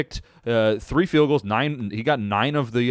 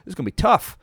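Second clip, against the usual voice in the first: higher, put-on exhausted voice; imitating a winded player; 10 semitones higher than usual. Host voices a huffing defender early on, mock tired. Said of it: "it's like".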